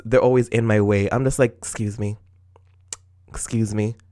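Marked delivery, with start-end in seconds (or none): 1.6-4.0 mock polite excuse me. Politely asking gym people to move.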